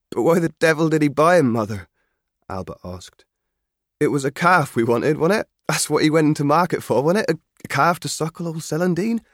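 a keen lad pleading for his father; lightly voiced country boy, earnest; young Albert. Albert questions his mother.

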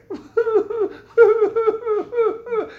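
loud, high burst of laughter; amused laugh mid-sermon; hearty laugh. Real, not acted. Preacher laughs at his own image.

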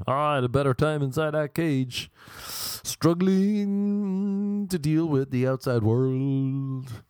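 mock movie narration with a long stretched word; Morgan Freeman. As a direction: narrate the escaped bird like a prison drama, drawing words out. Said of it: "gonna be like Shawshank, Morgan Freeman".

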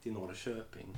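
halting Norrland Swedish imitation; Norrland dialect attempt. Shown as a demonstration. Host has another go, halting Norrland dialect. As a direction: feel your way through a Norrland accent. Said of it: "Jag försöker norrländska här en gång till".

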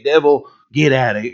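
lightly put-on Southern preacher accent; a hint of Southern revival preacher; Southern televangelist preacher. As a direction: slip into a Southern televangelist's rebuke. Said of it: "I go into Southern, you know, televangelist preacher".

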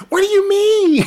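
high, loud indignant comeback; indignant retort. Acted. Man throwing her question back at her, indignant. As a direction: act out an incredulous, heated reply. Acted indignant argument with the woman.

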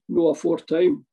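a cheeky reply with laughter breaking in; laughing. Retold or imitated. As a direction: toss it back with a laugh.

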